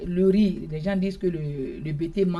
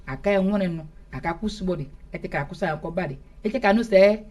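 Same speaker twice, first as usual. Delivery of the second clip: a festive public invitation, a bit raised; formal announcement in Bété. Acted. Guest announces the rice festival to the Zedi people. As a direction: proclaim the invitation to the villagers.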